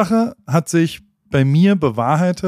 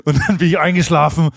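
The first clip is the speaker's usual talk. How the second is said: Margret; 2 semitones higher than usual. Retold or imitated. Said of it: "Margret hat immer auch so".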